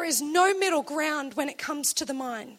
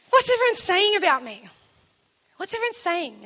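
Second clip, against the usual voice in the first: louder repeat; 3 semitones higher, 5 dB louder than usual. Retold or imitated. Jesus repeating question, louder.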